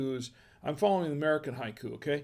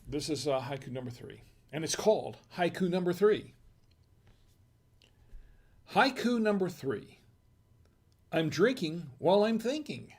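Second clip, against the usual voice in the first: haiku recital. Shown as a demonstration. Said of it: "I have one more haiku".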